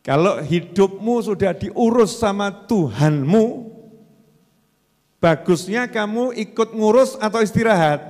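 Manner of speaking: slow, emphatic restating of the question. Shown as a demonstration. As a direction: say it again slowly and clearly. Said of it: "Kok terus jadi nggak jelas semua".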